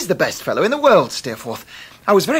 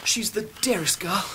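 hushed, confiding whisper; 3 semitones higher, 5 dB quieter than usual. Acted. A guest whispers praise of his sweetheart to the host, hushed. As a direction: lean in and breathe it softly.

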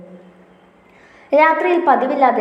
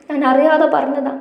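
higher, upset, അറിയാതെ stressed; upset self-blame; 6 semitones higher than usual. A narrator's reading. Chippi blaming herself to Mahesh, higher and upset. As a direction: blurt the guilt out, voice lifted.

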